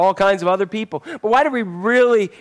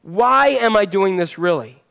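slow self-question. Shown as a demonstration. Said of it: "Whatever you're choosing in life".

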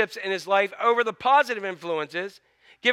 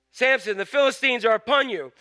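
mild raised call, a little higher; 4 semitones higher than usual. Retold or imitated. Delilah calling to sleeping Samson, mild raised call. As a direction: read it as a mild warning cry. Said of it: "And then she called to Samson".

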